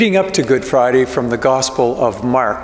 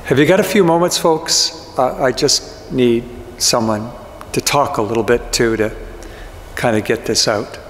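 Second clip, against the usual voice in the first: lightly acted grieving disciple, close to own voice; Peter in character. Grieving disciple confiding in the congregation, lightly voiced and subdued. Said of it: "I'm going to try to get into the character of Peter".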